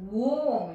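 ウォーム with a long "or" vowel; correct warm. Shown as a demonstration. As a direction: say ウォーム rounded, unlike アーム. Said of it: "アームっていうものがウォームになる".

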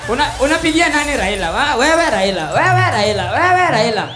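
pushing voters to say Raila; loud poll questioner. Acted. Pollster asking voters.

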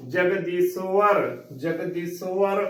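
"ਜਗਦੀਸ਼ਵਰ" as jag-dee-so-war, rounded so; correct pronunciation. Shown as a demonstration. Teacher giving learners the pure reading, careful model pronunciation. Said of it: "ਇਸ ਦਾ ਸ਼ੁੱਧ ਉਚਾਰਨ ਹੋਵੇਗਾ".

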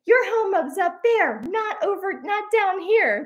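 high-pitched indignant insistence; retold arguing. Tourist's wife arguing about the trash, mock indignation. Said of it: "she was arguing for the fact".

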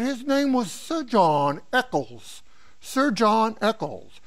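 slow, measured mock-English mentor; English accent. Famous mentor naming the Nobel winner, light English accent. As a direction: lightly imitate an English accent, drawing out the name. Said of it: "He had a very nice English accent".

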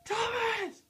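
calling out. Real, not acted. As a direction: call his name across the room. Calling out to him.

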